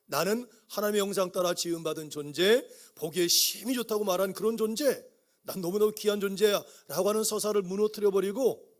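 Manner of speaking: ordinary delivery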